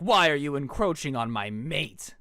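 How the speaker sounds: slow, low mock-menacing wolf kid; lightly voiced territorial werewolf, drawn out slowly; werewolf boy. Werewolf boy confronts the narrator over his mate, mock menace.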